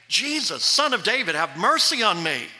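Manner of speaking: preacher voicing a beggar's cry. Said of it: "he began to cry out and say".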